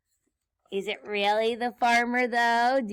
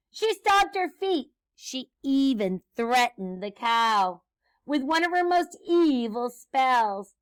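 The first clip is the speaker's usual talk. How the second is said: lively, slightly raised read-aloud; story read to children; 6 dB louder than usual. A narrator's reading. Teacher reads Grinch's broomstick trip to children, lively storytelling. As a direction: narrate a picture book with bounce.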